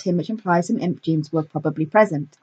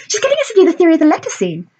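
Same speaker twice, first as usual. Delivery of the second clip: high, fast, squeaky pixie; 10 semitones higher, 4 dB louder, faster than usual. A narrator's reading. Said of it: "the fire pixie squeaked".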